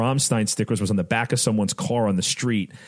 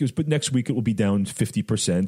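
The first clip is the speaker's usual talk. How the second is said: put-on German accent; 4 semitones higher than usual. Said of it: "in his German accent".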